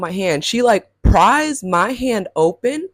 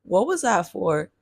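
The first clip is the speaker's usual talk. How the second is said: understated retold bewilderment at usual pitch; mildly distraught. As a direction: ask it with a touch of hurt confusion. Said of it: "I'm just distraught".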